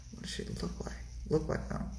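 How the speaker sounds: whispered repeat of "what does she look like"; hushed, thinking under the breath; covert muttering. Retold or imitated. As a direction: whisper it to yourself while stalling. Mulls question covertly to himself.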